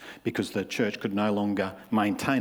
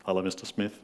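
a touch of a sugary church greeter; fawning pastor greeting; 3 semitones lower than usual. Retold or imitated. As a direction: gush over the rich donors, lightly mocking. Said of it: "I'd be standing up and say".

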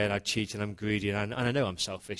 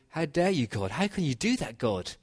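angry outburst; 4 semitones higher than usual. Retold or imitated. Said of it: "I was actually quite angry".

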